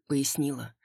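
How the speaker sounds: ordinary delivery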